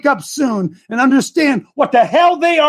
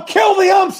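mock yell; 5 semitones higher than usual. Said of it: "Today you yell".

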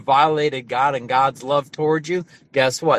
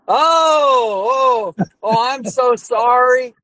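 flustered apology; 8 semitones higher, 6 dB louder, much slower than usual. Retold or imitated. Crew guy realizes he cussed at pastor.

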